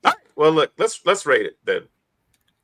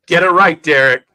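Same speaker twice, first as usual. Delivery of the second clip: louder, half-joking telling-off; mock scolding; 6 dB louder than usual. Teasing Derek about getting the quote wrong, mock stern and louder. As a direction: bark it at him in playful fake anger.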